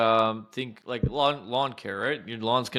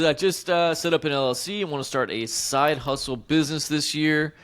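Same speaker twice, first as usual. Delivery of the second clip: put-on Boston accent; 4 semitones higher than usual. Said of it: "I can't do a Boston accent".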